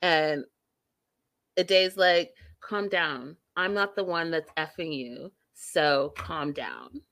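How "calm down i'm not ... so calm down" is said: softer, lower, unbothered imitation; calmly telling her to settle down; retold calm. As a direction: play it cool and unruffled. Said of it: "keep their calm".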